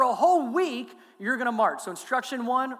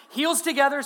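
barked, louder and higher, like a drill sergeant; drill sergeant order; 5 semitones higher, 5 dB louder than usual. Retold or imitated. Marine friend drilling the pastor, mock drill sergeant bark. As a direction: snap the command at a new recruit. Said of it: "treat me like you're a drill sergeant".

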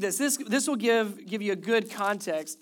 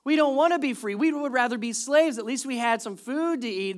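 higher, louder complaining crowd; mock whining; 5 semitones higher, 4 dB louder than usual. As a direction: complain like ungrateful grumblers. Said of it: "They're complaining and whining".

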